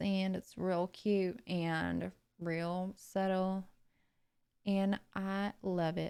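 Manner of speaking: put-on soft, quiet Georgia Southern accent. On an accent stream, showing how Pasta Ravioli talks: Pasta Ravioli's Georgia accent. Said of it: "She kind of talks like this".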